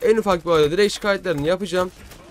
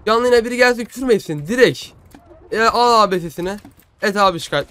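raised, fired-up voice; heated, loud; 4 semitones higher, 5 dB louder than usual. Real, not acted. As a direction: call it out forcefully. Heated vow to report them.

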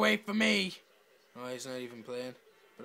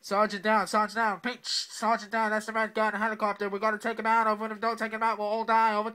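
mock radio call.

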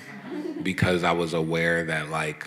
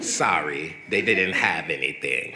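put-on UK accent. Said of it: "That, that's my U K accent".

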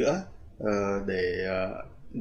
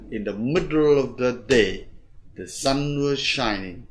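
"middle of the" run together, beat on "day"; rhythm demo; slower than usual. Shown as a demonstration. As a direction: link "middle of", then stress "sun" and "shining". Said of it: "Thế đấy là cái nhịp của nó".

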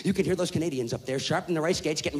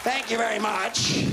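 sarcastic thanks; 5 semitones higher, slower than usual. Retold or imitated. Sarcastic reply to the French.

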